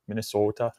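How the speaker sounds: "Minnesota" said with the Minnesotan long O. Shown as a demonstration. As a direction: stretch the O in "Minnesota". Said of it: "We've got long O's".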